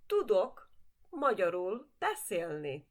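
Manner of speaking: Tudok magyarul beszélni said clearly with stress on magyarul; model sentence. Shown as a demonstration. Teacher modeling a sentence for students to repeat. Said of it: "say that with me too".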